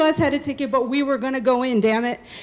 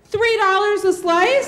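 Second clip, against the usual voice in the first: tentative call; 6 semitones higher, slower than usual. Retold or imitated. Raises price, shouting.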